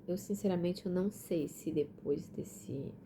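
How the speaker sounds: ordinary talk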